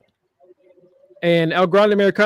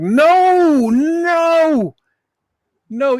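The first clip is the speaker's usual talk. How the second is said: higher, louder panicked "no"; mock group refusal; 10 semitones higher, 4 dB louder, much slower than usual. The faction refusing Tatum's challenge, mock panic. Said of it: "all the calling are like".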